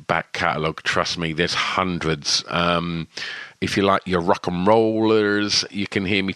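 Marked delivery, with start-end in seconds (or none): 3.6-6.3 a hint of a swaggering rocker voice; half-joking rock and roll announcer delivery; rock and roll style. Real, not acted. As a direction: lightly ham it up like a rock DJ. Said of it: "why did I do that in that style?".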